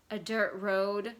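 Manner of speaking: groaned. Acted. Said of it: "Bailey groaned".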